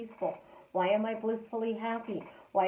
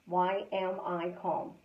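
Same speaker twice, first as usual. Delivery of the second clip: Why am I calm said slowly and softer; 3 semitones lower, 3 dB quieter, slower than usual. Shown as a demonstration. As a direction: let Why am I calm sink in, slow and quiet. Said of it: "can say out loud all day long".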